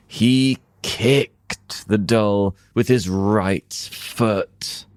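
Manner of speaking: ordinary delivery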